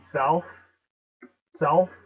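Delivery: "south" as SOWLTH; "south" with a dark l inside. Shown as a demonstration. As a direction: slip an l before the th in "south". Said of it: "pronounce it with an L".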